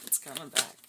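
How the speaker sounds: coming back hit loud and firm. Real, not acted. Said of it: "repeated louder".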